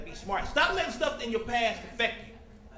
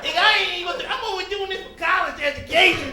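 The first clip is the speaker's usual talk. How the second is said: mock crying; 5 semitones higher, 3 dB louder than usual. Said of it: "brothers start crying".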